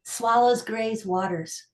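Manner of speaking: deliberate recital, pausing between images; poetry reading. Acted. Poet performs tai chi sestina for listeners, measured recital. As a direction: recite each line as its own image.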